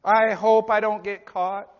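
loud pulpit voicing of a hypocrite; forceful preaching. Real, not acted. Preacher voicing a hypocrite afraid of discovery, forceful preaching. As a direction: proclaim the sinner's thoughts aloud.

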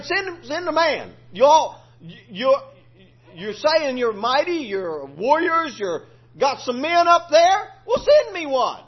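a preacher hamming up Goliath's challenge; taunting giant. Acted. Preacher voices Goliath taunting Israel.

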